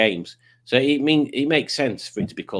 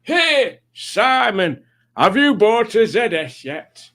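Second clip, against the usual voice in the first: squeaky high cartoon penguin voice; Pingu's voice; 10 semitones higher, 5 dB louder, slower than usual. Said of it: "This is Pingu's voice".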